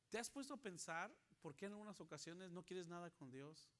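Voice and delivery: ordinary talk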